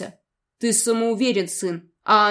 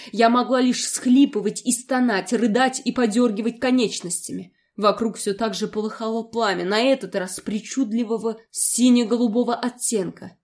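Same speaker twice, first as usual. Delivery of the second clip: plain reading voice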